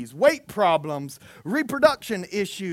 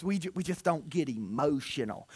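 mock Northern accent; 5 semitones lower, 8 dB quieter than usual. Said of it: "And I, I've heard this".

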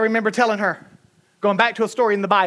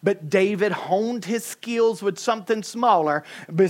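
normal talking voice

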